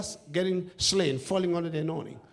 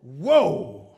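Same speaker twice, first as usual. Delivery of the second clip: mock shock; 12 dB louder than usual. Real, not acted. Reacting to his own words.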